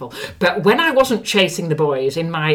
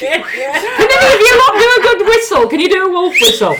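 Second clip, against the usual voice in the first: calling out; 9 semitones higher, 9 dB louder, slower than usual. Retold or imitated. Mock soldiers calling out.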